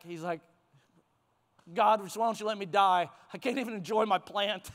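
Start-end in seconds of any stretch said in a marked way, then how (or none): 1.7-4.7 hammed-up quick lament; mock despair over a lost plant; really dramatic. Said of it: "he even is really dramatic".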